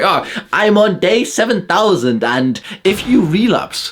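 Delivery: high, slow, smug mocking voice; smug YouTuber parody. Parodying nofap YouTubers for his audience, high and slow and smug. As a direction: drag it out like a smug guru.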